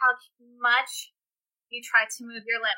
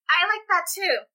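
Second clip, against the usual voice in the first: put-on child with a lisp; 7 semitones higher than usual. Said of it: "speaking with a lisp".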